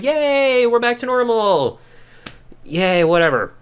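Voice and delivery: high mock yay fading to flat whatever; half-hearted family celebration; sarcastic cheer. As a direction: cheer then shrug it off.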